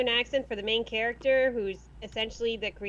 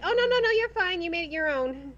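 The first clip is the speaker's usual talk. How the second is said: retold reassurance; 5 semitones higher than usual. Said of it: "And she's like".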